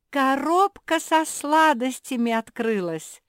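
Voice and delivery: high, loud exclamation; excited cry. A narrator's reading. Zefirka announces the sweets box has opened, crying out excitedly. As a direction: shout it out in a high voice. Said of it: "закричала Зефирка".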